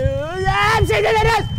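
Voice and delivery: high, drawn-out agonized scream; slow howl of agony, hammed-up; great pain. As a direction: scream the words slowly as pain hits. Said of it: "it gives me great pain".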